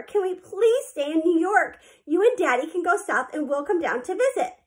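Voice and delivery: begging. A narrator's reading. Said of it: "they begged Eudora".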